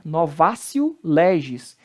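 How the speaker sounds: novatio as "novásio"; Latin T as C. Shown as a demonstration. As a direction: model novatio with an S sound. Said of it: "o T de novo aí com som de C".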